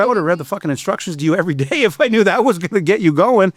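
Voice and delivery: amused mock exasperation with a laugh; laughing sarcasm. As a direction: laugh out the punchline at her. Retold sarcastic remark, laughing.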